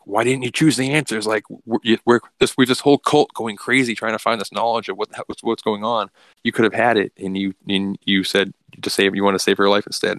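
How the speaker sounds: berserk rant. Retold or imitated. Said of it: "he's, like, going berserker".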